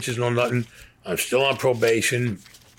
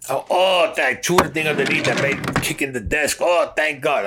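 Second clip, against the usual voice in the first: higher and louder, tumbling out in a rush of relief; flustered relief; 5 semitones higher, 3 dB louder than usual. Retold or imitated. Realizing the gunmen are cops, blurting out relieved. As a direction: blurt it out as the danger breaks. Relief, parole officer walks in.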